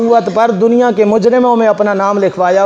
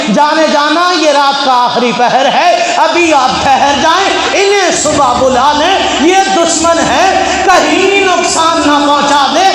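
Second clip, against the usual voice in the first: higher, urgent cautioning voice; worried warning; 5 semitones higher than usual. Acted. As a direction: plead with him to wait till morning. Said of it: "अम्मा Ayesha Siddiqa की आवाज़".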